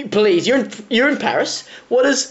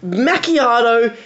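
mocking; 4 semitones higher than usual. Real, not acted. Mocking fancy coffee names.

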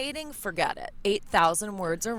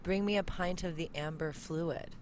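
Australian; 3 semitones lower, 7 dB quieter than usual. Shown as a demonstration. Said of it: "Oh, that's nice".

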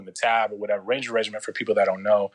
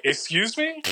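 a much higher, indignant Excuse me?; offended excuse me; 12 semitones higher, slower than usual. Retold or imitated. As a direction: take offence at the cocky kid. Recruiter offended by cocky reply.

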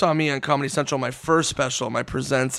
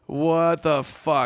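slow, imitating sullen disbelief; miserable, mad; much slower than usual. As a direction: drag it out in mock disgust. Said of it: "He was so mad".

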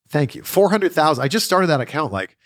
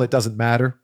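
wrestler impression. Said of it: "I've also pulled out the occasional".

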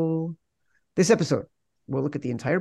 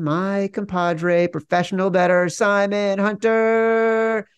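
put-on drawn-out, higher English accent host intro; 6 semitones higher, slower than usual. Host introducing co-host Simon in a mock English accent. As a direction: announce him in a hammed-up English accent. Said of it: "Why do I always use an English accent".

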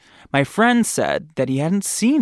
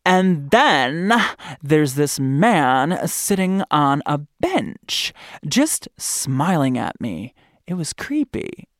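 Kaylee voice; slower than usual. Retold or imitated. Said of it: "this is my Kaylee voice".

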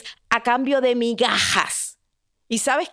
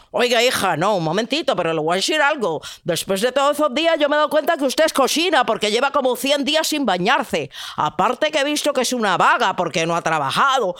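scolding prince; faster than usual. Acted.

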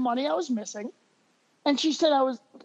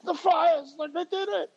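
put-on drunk gushing fan; 4 semitones higher, slower than usual. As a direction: gush at him like a drunk fan. I'm pretty hammered.

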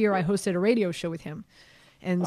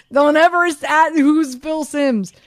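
louder, higher incredulous scolding with laughs; hammed-up laughing rebuke; mock scolding; 6 semitones higher, 8 dB louder than usual. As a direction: lecture him, laughing in disbelief. Retelling scolding the rookie.

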